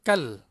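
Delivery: "kal" with a short A, not "kaal"; short vowel. Shown as a demonstration. Teacher giving the word for tomorrow, short "kal". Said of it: "pendek je".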